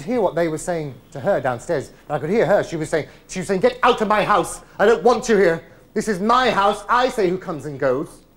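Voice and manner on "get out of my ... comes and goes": loud, raised acted mother's protest; outraged and loud, defending her territory; angry ordering out. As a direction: lay down the law at full voice.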